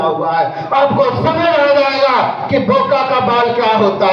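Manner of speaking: repeated go-and-ask, building to shouts; rousing preaching. Acted. Speaker warning the audience about illness, preaching. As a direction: drive the warning home.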